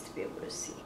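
quick soft whisper. Real, not acted. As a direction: whisper while pouring carefully. Careful pouring, whispered aside.

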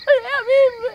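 sobbing. Acted. Wife told to stop crying.

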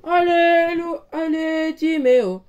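loud rallying cheer. Real, not acted. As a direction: pump up the team. Cheering the team on.

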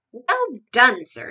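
loud, hearty congratulation; shouted praise. A narrator's reading. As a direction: cheer him on at full voice. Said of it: "shouted the Duke".

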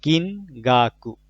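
very slow "কিনগাকু"; slow teacher's model of "কিনগাকু"; Japanese word modelled. Shown as a demonstration. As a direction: say "কিনগাকু" slowly, each syllable separate. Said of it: "vocabulary word modelled".

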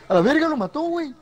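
laughing disbelief, high. Real, not acted. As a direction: burst out laughing at the kill. Teammate killed, laughs.

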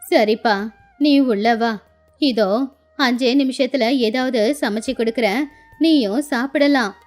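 lightly voiced kindly old woman; kindly old grandmother. Old woman promises Raju food in minutes, kindly. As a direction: welcome him in like an indulgent grandmother.

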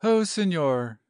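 a touch of pleased swooning; happy sigh. Acted. Lady leaning on her suitor's shoulder, happily sighing. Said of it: "she sighed happily".

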